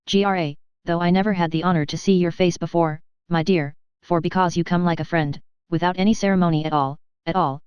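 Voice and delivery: a light Irish brogue, lightly voiced; hint of an old Irish knight's accent, hearty and friendly; gentle Irish accent, greeting a stranger warmly. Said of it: "in a true Hibernian accent".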